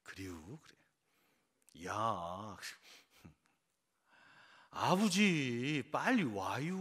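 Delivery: drawn-out Chungcheong country drawl; Chungcheong dialect. Shown as a demonstration. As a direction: slip into slow, stretched Chungcheong dialect. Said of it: "그냥 자연스럽게 사투리가 나옵니다".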